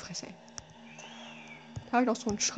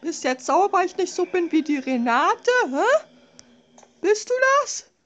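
angry taunting; 3 semitones higher, 4 dB louder than usual. Real, not acted. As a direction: yell in defiance. Yelling at monster Karl.

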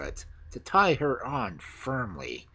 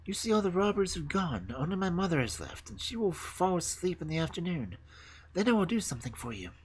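put-on high girl's voice; high-pitched little schemer; confiding robber girl; 7 semitones higher than usual. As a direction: share a plan in a high voice.

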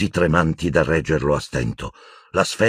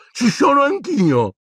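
high, drawn-out call; acted shout from above; 4 dB louder than usual. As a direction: cry out high to be noticed. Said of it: "gridò una voce".

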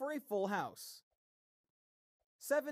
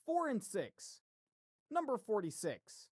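steady bingo caller call-out. Acted. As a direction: announce each number like a hall caller. Calls bingo numbers.

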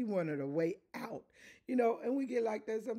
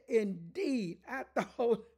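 furious Naaman; 3 semitones higher than usual. Retold or imitated. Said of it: "he went away and he said".

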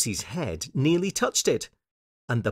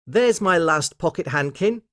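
put-on high, pleased little girl; Lucy; 6 semitones higher than usual. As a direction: announce a happy find in a child's voice. Lucy finds her last handkerchief.

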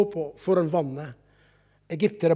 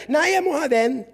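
put-on insistent child; 9 semitones higher, 4 dB louder than usual.

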